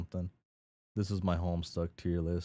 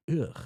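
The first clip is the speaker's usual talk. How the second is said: disgusted ugh; 9 semitones higher, 6 dB louder than usual. Acted. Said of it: "then she's like".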